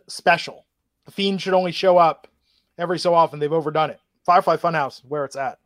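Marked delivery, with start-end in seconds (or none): 4.2-5.6 talking through hiccups; words broken by a hiccup. Real, not acted.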